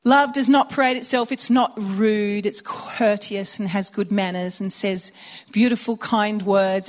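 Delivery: slow, weighty preaching voice; solemn reading of the love passage; scripture recital. Acted. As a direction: proclaim each line slowly and deliberately.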